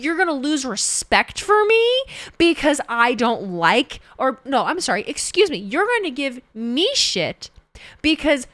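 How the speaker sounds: slow, hammed-up theatrical outrage; mock rant. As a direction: play the offended fan, tongue in cheek. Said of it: "So if you can't tell and I'm joking".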